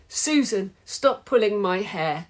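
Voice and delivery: squealing. Acted. Violet to Susan in class, high squeal. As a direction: squeal the complaint. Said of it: "squealed vain Violet".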